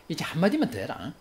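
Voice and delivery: mock threat to a spouse; threatening. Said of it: "아내를 협박하고자 할 때". (으름장 놓듯)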